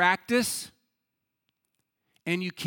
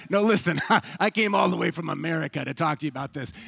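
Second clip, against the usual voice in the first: insistent protest; 4 dB louder, faster than usual. Retold or imitated. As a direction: push back at the monk, imitating your own indignation. Retold protest to the monk.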